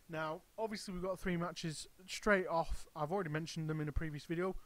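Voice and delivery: talking through hiccups. Real, not acted. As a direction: speak with hiccups breaking in. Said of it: "Excuse me, I'm hiccuping now".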